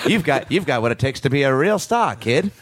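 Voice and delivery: lightly voiced old Hollywood agent; a hint of a sleazy talent scout; old-timey voice. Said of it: "old-timey voice".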